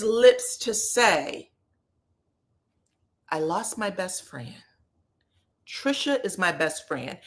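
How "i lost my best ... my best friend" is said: softer, lowered retelling; mock mournful. Husband lamenting his lost best friend, mock mournful. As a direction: imitate his subdued lament with a touch of mockery. Mimicking husband's sorrowful claim.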